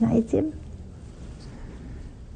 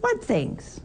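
softer, innocent-sounding query; innocent question; 4 semitones higher, 4 dB quieter than usual. Acted. Jesus softly asking disciples to tell him what happened. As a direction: play dumb gently.

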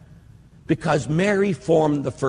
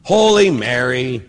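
slow prayer recitation; 7 dB louder, slower than usual. Shown as a demonstration. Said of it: "The second part is very simple".

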